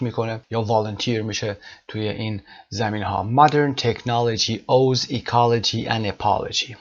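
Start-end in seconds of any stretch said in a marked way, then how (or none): 3.4-6.8 1 slow model reading. Shown as a demonstration. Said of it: "خیلی زیبا هست".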